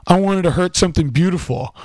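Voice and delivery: Fight Club quote. Retold or imitated. Friend mimicking the attacker copying Fight Club, loud and theatrical. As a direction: declaim it loudly, imitating a film villain. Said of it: "fucking was copying Fight Club".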